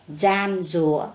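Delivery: "gian rùa" said slowly and carefully, each syllable clear; slow model reading. Shown as a demonstration. Teacher models the word for her class, slow and careful. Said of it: "âm đầu âm di".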